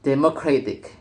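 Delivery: "democratic" set apart, stressed on CRAT; shifted stress. Shown as a demonstration. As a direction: demonstrate "democratic" as demo-CRAT-ic. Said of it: "with stress shifted away from the original position".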